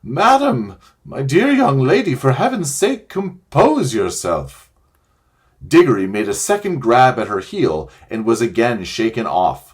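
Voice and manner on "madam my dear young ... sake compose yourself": put-on high, louder panicked old man pleading; trembling scream. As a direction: squeal in terror at the witch. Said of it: "in a sort of trembling scream".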